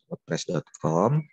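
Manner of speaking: spelled out slowly for beginners; slow and deliberate. Shown as a demonstration. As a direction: say each part slowly and clearly. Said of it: "Kita pelan-pelan aja".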